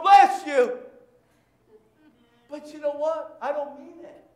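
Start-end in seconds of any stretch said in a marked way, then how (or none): 0.0-0.8 loud, exasperated bless you; half-joking loud blessing; mock shouted blessing. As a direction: bark the blessing at her sneezes. Pastor mimics blessing sneezing wife.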